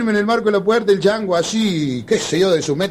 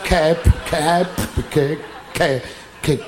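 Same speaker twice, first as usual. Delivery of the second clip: a hint of a stammer; light mock stutter, as if water in the mouth; stuttering friend; 3 semitones lower, much slower than usual. Friend struggling to speak, mild stammer. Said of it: "como si tuviera agua en la nasta".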